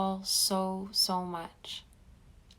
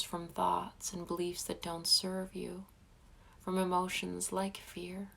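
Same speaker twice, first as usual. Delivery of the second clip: guided meditation. Acted. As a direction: guide them gently into calm. Closing meditation blessing.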